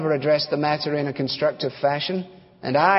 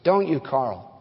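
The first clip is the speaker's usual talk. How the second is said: wife's question; 4 semitones higher than usual. Acted. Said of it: "Hence her question across the dining room table".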